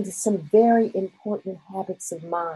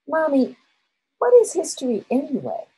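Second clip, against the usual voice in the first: higher-pitched, lightly voiced child's question; curious young son; 9 semitones higher, faster than usual. Nine-year-old son asking his mother about history, lightly imitated curiosity. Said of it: "Her nine-year-old son came home".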